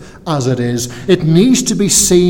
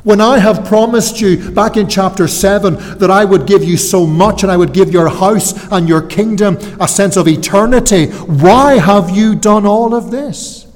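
higher-pitched, pained demand for an answer; impassioned reproach; 5 semitones higher than usual. Acted. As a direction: confront him as the wronged God, voice raised high. God confronting David, acted by preacher.

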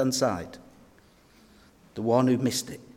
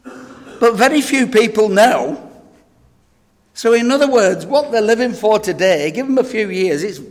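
loud, high, impassioned preaching; full-force preaching; 8 semitones higher, 9 dB louder than usual. Real, not acted. Preacher crying out to the congregation, full-force preaching. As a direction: preach it hard to the crowd.

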